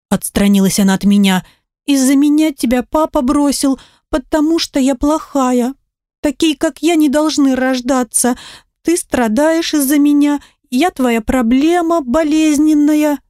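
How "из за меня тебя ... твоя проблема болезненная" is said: put-on upset child. Daughter blames herself, higher.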